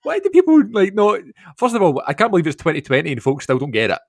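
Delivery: mock exasperation at the fans; exasperated. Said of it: "And I was like".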